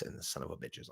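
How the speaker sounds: angry curse under the breath, unvoiced; real anger whispered low. Real, not acted. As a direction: hiss the insult so nobody hears. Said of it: "I'm so freaking mad".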